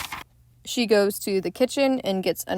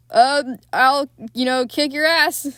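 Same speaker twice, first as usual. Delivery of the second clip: louder, puffed-up fake bravado; hammed-up threat, louder and higher; mock tough guy; 4 semitones higher, 5 dB louder than usual. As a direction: play the scared man acting tough. He doesn't say, "I'll kick your ass.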